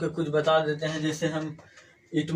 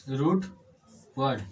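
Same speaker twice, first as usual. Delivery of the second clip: रूट and वर्ड split by a clear pause; word by word; 2 semitones lower than usual. Shown as a demonstration. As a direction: separate the two words for the learners. Repeats term word by word.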